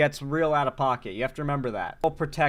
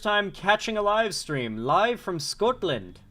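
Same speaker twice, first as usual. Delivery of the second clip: higher, drawn-out attempt at a Scottish accent; botched Scottish accent; 4 semitones higher, slower than usual. Streamer reading a Scottish viewer's message, botched Scottish accent. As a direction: try a Scottish accent and miss. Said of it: "that wasn't a Scottish accent at all".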